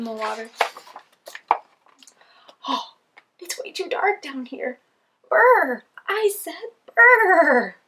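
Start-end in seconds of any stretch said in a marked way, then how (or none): 2.7-4.8 grumpy penguin voice. Acted. Penguin complains in dark. 5.3-7.8 shivering. Acted. Penguin shivering in cold water.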